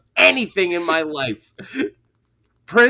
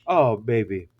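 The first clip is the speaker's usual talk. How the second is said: low, soft mock sweet talk; deep, hushed retold bedroom voice; a singer; 10 semitones lower, 6 dB quieter than usual. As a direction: imitate him letting her down gently in a deep voice. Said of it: "a singer goes".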